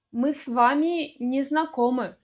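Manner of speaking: с вами run into one word, "svami"; preposition joined. Shown as a demonstration. Example sentence for learners, с вами joined smoothly. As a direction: say с вами with no gap. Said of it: "произносим вместе".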